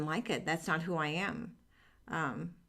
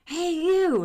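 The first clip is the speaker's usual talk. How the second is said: put-on higher, louder old man calling across the room; dad calling out; 12 semitones higher, 9 dB louder than usual. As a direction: bark it out as her father summoning her. Dad calls out in nursing home.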